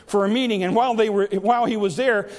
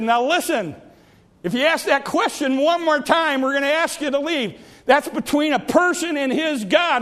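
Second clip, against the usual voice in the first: raised, higher exasperated warning; exasperated pastor; 5 semitones higher than usual. Acted. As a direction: scold him firmly, pitched up. Pastor rebukes the old man.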